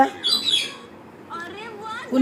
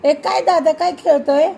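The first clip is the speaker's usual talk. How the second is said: higher, louder call to dada; 5 semitones higher, 4 dB louder than usual. Real, not acted. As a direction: call dada across the room. Calling out to older brother. (दादाला हाक मारत)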